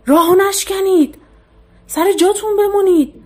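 فریاد؛ فریاد بلند و زیر از وحشت؛ با تمام قدرت هشدار بده؛ داد زدن بلند و هراسان. A narrator's reading. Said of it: "بهروز داد زد".

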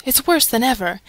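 plain reading voice

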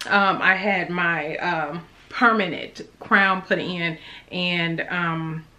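numb mouth, slightly slurred; numb from the dentist. Real, not acted. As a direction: talk through a numb, swollen mouth. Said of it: "My mouth is numb, so if it looked like I'm talking weird, I am".

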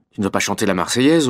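usual speaking voice

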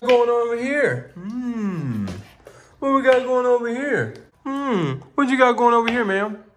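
high, loud playful chef act; hammed-up pizzeria host; silly chef voice. Dad playing pizza chef character.

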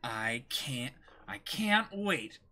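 ordinary talk

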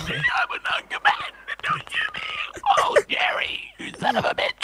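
very high, strained panicky screech; mock panic. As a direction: squeal it like a terrified non-combatant. Acted panic as non-combatant in game.

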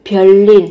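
별일 said as byeollil, the l carried over; liaison pronunciation. Shown as a demonstration. Teacher demonstrating the sound change in 별일 for students, carefully articulated. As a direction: sound 별일 with a doubled l, byeol-lil. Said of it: "ở đây biến âm thành riêng".

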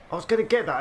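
high, loud protest; outraged at the steal; indignant outburst. Real, not acted. Gamer complaining an enemy nipped his pickup, high indignant yelp.

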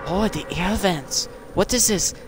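put-on lightly done African accent. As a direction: play up a fake African accent in awe. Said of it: "do you seriously think I have that accent".

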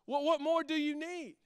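a touch of annoyed defensiveness; irritated Jack. Retold or imitated. Jack answers Grace's question, mildly irritated. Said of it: "Jack gets very irritated".

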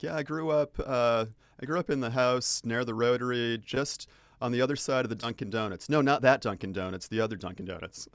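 lightly voiced chatty Bostonian, mock insistent on the other Dunkin' Donuts; joking Boston local. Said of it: "and we were joking".

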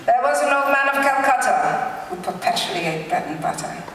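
a hint of a fake British accent. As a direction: recite it like a mock British reader. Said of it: "do it in a fake British accent".

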